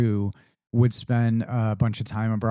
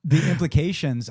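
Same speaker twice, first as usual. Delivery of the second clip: laughing; 5 semitones higher than usual. Real, not acted. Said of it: "I'm having a stroke".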